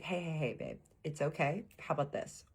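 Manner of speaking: calm someone down gently; lightly voiced, easygoing comfort; soothing partner. Partner soothing her after the crash.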